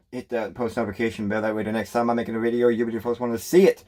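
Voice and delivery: quick auctioneer patter; fast talking. Real, not acted. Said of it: "Sound like an auctioneer there for a second".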